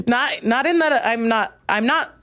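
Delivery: talking through a laugh; real laugh in the voice. Real, not acted. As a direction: still laughing as you backpedal. Laughing while correcting.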